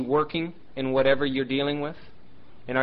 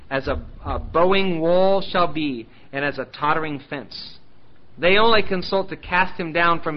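solemn, measured reading of the Psalm; scripture reading. Acted. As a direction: read the Psalm aloud to the congregation. Reads Psalm 62 aloud.

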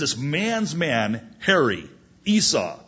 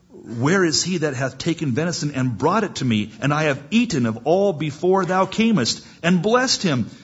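acted alarm, climbing higher and louder; trembling alarm; 4 semitones higher, 3 dB louder than usual. Shaken father asking who took the blessing, rising alarm. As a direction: build in agitation as you question. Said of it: "And Isaac trembled very exceedingly".

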